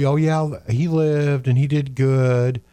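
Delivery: slow, drawn-out mock gushing; gooey, sloppy mimicry. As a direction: imitate vague, gooey praise, slowly. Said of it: "ooey gooey, you know, sloppy terms".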